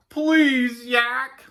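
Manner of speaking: high, loud, plaintive plea; sighing Walrus. A narrator's reading. Walrus worn down by Yak's chatter, sighing plea. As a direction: plead with a weary whine. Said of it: "sighed Walrus".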